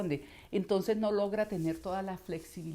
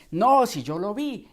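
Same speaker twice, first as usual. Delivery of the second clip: low-larynx voice; 2 semitones higher, 12 dB louder than usual. Shown as a demonstration. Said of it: "bajó la laringe y ya la coloca muy abajo".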